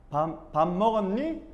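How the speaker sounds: slow, stumbling attempt at Seoul speech; stiffly copying the Seoul way of asking "밥 먹었니?"; awkward Seoul imitation. Shown as a demonstration. Busan speaker practising Seoul speech, slow and awkward. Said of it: "이렇게 돼요".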